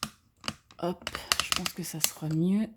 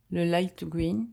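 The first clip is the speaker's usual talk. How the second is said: slow, louder English accent, badly put on; clumsy English accent; 5 dB louder, slower than usual. Shown as a demonstration. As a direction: say "light green" with a shaky English accent, word by word. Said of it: "l'accent anglais qui est totalement pourri". (accent anglais raté et appuyé)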